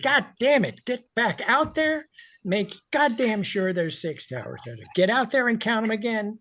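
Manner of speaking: imitating an angry owner yelling; mock furious boss. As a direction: bark the order like an enraged owner. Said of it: "he is impersonating Stan Kaplan".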